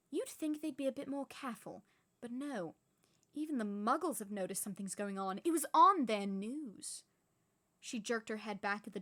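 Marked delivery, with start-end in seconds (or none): 0.1-7.0 complain, building to a blast; irritated witch. Acted. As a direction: McGonagall fuming about careless wizards. McGonagall complains.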